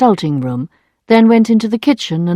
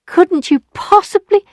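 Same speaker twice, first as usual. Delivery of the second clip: pleading; 12 semitones higher than usual. Acted. Emma pleading with Lheureux.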